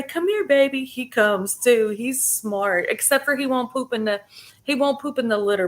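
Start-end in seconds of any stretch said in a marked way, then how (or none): 0.0-0.8 calling the cat. Shown as a demonstration. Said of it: "If you say".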